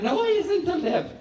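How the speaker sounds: high-pitched, hammed-up childish lament; mock despair. Anxious child confiding in mother, hammed-up despair. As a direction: overdramatize it in a high little voice.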